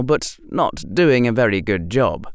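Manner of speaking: usual speaking voice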